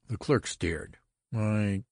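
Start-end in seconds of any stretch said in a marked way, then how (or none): 1.3-1.8 high, hesitant protest. A narrator's reading. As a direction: start an objection, pitched up. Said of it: "he protested".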